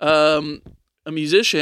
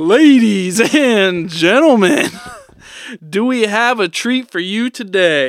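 building arena-style wrestling ring announcer voice; 4 semitones higher, 4 dB louder than usual. Getting his WWE announcer voice on to greet the ladies and gentlemen. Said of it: "Let me get my WWE announcer voice on".

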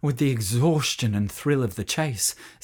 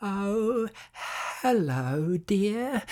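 meek, sugary, sweet, humble, high witch voice; 8 semitones higher, 4 dB quieter than usual. Narrator voicing the witch at the mother's door, in a humble witch voice. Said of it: "said the witch in her most humble voice".

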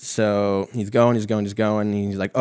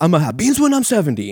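straight-out, high-pitched, loud yell; 9 semitones higher, 5 dB louder than usual. Retelling an athlete's outburst at his coach about beans: yelling as Drake. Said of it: "and he just yells".

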